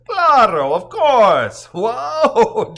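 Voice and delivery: loud, high mock amazement; whooping playful reply; exuberant exclamation. A narrator's reading. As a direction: call it out big and high. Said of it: "Justin laughs".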